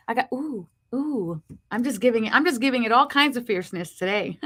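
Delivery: slight lisp from new braces; talking around fresh braces. Real, not acted. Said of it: "sorry for the lisp".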